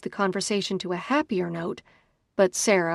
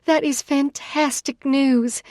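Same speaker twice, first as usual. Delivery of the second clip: loud, thrilled outburst of joy; excited shout; 6 semitones higher, 5 dB louder than usual. A narrator's reading. Sister on the phone hearing great news, excited shout. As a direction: shout the good news happily. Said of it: "I shout".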